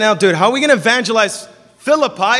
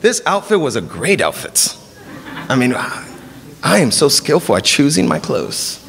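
preen over your own outfit; mock vanity; 4 semitones lower than usual. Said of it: "We go".

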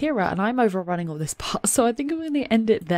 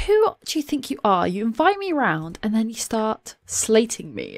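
acted indignation; 2 semitones higher than usual. Sim confronting the woman who invited her round, mock indignant. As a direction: play an affronted woman telling someone off.

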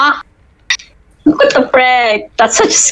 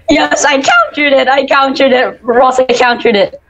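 triumphant; 4 semitones higher than usual. Real, not acted. Triumphant laugh after counter.

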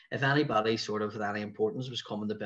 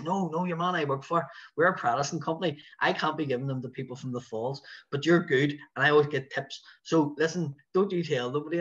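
higher, lightly imitated broad Belfast voice; hint of a broad Belfast tour man; Lee, broad Belfast accent; 4 semitones higher than usual. Tour man confiding in a guide, lightly imitated broad Belfast accent. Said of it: "he had the broadest Belfast accent".

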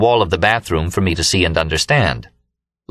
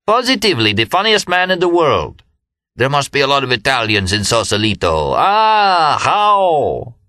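much higher, delighted crowing; gleeful Remy; 7 semitones higher than usual. A narrator's reading. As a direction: crow it out like a man who can't stop laughing. Remy laughing at his own joke.

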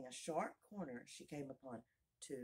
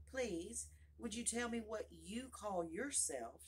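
timid; 7 semitones higher, slower than usual. A narrator's reading. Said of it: "she said timidly".

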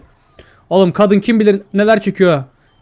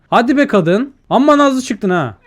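higher-pitched, drawn-out coaxing; playful, higher complaint; exasperated urging; 6 semitones higher than usual. Acted. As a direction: nag a stubborn sleeper. Urging the sleeping woman to wake.

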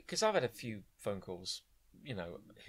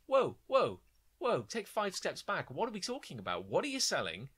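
playfully exasperated push-back, slowing at the end; mock exasperation; 2 semitones higher, 3 dB louder than usual. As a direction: act fed up with the sales pitch. Acted exasperated reply to caller.

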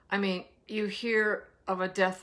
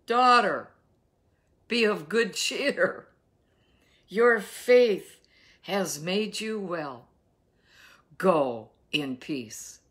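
tender Jesus; 4 dB louder, slower than usual. Acted. Jesus speaks tenderly to woman.

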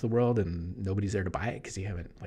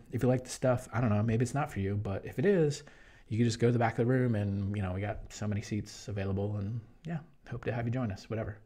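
lightly imitating laid-back Jeff. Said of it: "never raised his voice".

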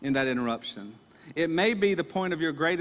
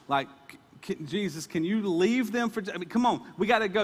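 urgent Jairus; 3 semitones higher than usual. Retold or imitated. Jairus begging Jesus to hurry home, urgent and pleading. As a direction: push him to come now, a worried father's rush. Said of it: "Can you imagine Jairus going".

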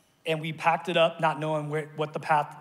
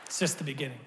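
hushed echo; 7 dB quieter, faster than usual. Shown as a demonstration.

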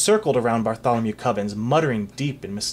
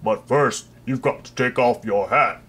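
lightly voiced mild, friendly headsman; a pleasant executioner reluctant to chop; gentle executioner.

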